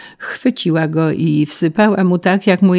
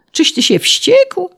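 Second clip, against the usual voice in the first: very high, drawn-out incredulous question; outraged disbelief; 4 dB louder than usual. A narrator's reading. Official amazed at the peasant's ten pairs, incredulous. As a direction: squeal it slowly in astonishment.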